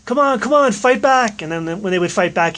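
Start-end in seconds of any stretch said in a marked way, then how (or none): 0.0-1.4 raised, higher-pitched taunting yell; imitated yell. Retelling the wrestler taunting the Technicos, imitated yell. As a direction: call it out like a wrestler goading opponents. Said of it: "He would yell".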